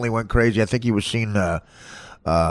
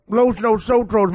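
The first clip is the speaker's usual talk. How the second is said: high, slow effeminate voice with mock Spanish; hammed-up effeminate fake Spanish, high and slow; Tim Kaine impression; 8 semitones higher, slower than usual. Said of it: "I'll be doing my Herman Tim Kaine".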